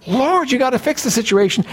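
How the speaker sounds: a lightly voiced desperate prophet; pleading prophet. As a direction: voice Habakkuk begging God to act. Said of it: "He's saying".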